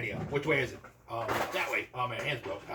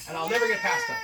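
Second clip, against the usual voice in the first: mock crying; 7 semitones higher, 6 dB louder than usual. Lovesick hero despairs about dragon.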